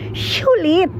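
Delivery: "sulit" with a sh sound at the start; playful mispronunciation. Real, not acted. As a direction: turn the s of "sulit" into sh. Word repeated with playful sh sound. ("sulit" diucapkan dengan bunyi sy di awal)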